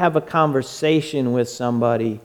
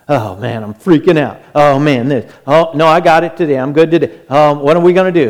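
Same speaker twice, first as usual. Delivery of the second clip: panicky believer; 4 dB louder, faster than usual. Acted. Preacher acts out a panicked believer.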